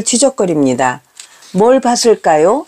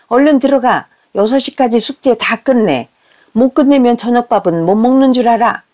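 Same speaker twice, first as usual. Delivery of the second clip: raised-pitch acted telling-off; scolding mother; 4 semitones higher than usual. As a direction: lay down the law like a stern mother. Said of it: "라며 혼을 냈습니다".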